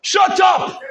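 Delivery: mock telling-off, pitch climbing on the repeat; retold crowd rebuke. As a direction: act out bystanders silencing someone. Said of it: "People around said what?".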